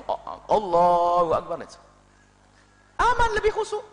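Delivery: slow, drawn-out takbir; mock relieved worshipper. Preacher acts a worshipper calmly beginning prayer, slow. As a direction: start the prayer slowly, at ease.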